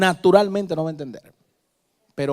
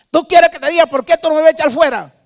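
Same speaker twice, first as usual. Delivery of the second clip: high, loud mocking demon voice; taunting demon; 12 semitones higher, 11 dB louder than usual. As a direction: sneer like a demon. Demon speaks through possessed girl.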